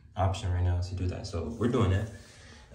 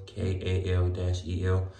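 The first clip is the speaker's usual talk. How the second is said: spelled out slowly; 2 semitones lower, slower than usual. Shown as a demonstration. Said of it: "Comment in the chat".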